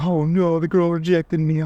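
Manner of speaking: mock the mopey guy who got rejected; whiny loser. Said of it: "Like a special education kid".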